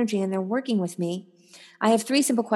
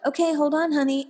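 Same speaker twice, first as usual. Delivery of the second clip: lightly voiced mom, a bit higher; busy mom; 6 semitones higher than usual. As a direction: gently put off an eager child. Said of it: "Mom's like".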